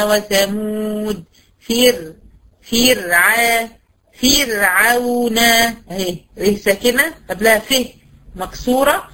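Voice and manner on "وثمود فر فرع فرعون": فرعون built up slowly from فر to فرع; slow recitation. Shown as a demonstration. Teacher building up فرعون piece by piece. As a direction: stretch فر, فرع, فرعون with a thin r. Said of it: "زي كلمة فرعون".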